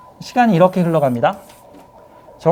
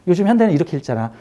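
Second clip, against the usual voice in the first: quick wrong way; much faster than usual. Shown as a demonstration. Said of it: "아니야".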